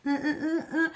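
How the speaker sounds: short rhythmic uhs; imitated groove grunts. Reviewer shows what doing that feels like, grunting rhythmically. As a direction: grunt along with the move.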